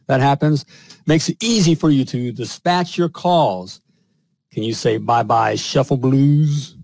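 pitchy sponsor read, punchy and selling; upbeat ad read. Acted. Podcast host reading a sponsor ad to plumbers, upbeat pitch. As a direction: sell it like a podcast ad spot.

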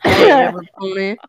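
light, teasing cartoon-pony hello; My Little Pony greeting. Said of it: "so I'll say "every pony".

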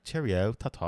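lightly put-on British farewell; mock British accent. Friend imitating how Americans fake British, mock British accent. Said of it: "when we do their accents".

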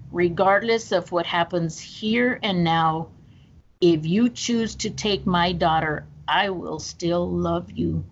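slow, steady vow to God; slow retold prayer. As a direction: promise it word by word, slowly. Praying aloud during CPR.

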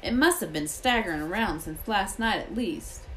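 a touch of rustic gamekeeper; lightly voiced Hagrid. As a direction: lightly voice the gamekeeper explaining a grim find.

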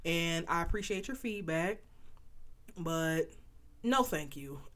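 polite but firm no to unwanted advice; firm refusal. Pretend. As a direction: put your foot down and say no.

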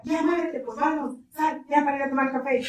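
lightly voiced husband hurrying his wife along; imitating the bossy husband.

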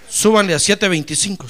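"Súbanle" said loud and commanding; firm order. Retold or imitated. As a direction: announce the raise boldly. Boss ordering a raise.

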